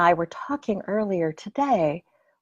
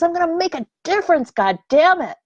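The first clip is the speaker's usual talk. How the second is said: higher, louder, fast fired-up vow; fierce determination; 8 semitones higher, 4 dB louder, faster than usual. Retold or imitated. Speaker voicing pure anger that gets you up, determined. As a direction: spit it out like a morning battle cry. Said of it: "the kind of anger that gets us up in the morning and says".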